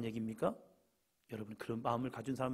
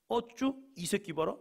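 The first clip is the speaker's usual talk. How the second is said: higher, louder mock scolding; teacher scolding; 7 semitones higher, 4 dB louder, slower than usual. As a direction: catch the student slacking off. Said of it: "우리 선생님 말씀이에요". (땡땡이치는 학생을 잡은 선생님의 호통)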